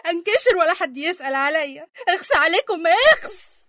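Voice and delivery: rising reproach ending loud and high; indignant scolding. Acted. Elder scolding family who never visited, indignant. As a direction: shame them, building to a sharp last word.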